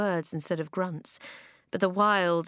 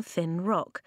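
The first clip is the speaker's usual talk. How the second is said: usual speaking voice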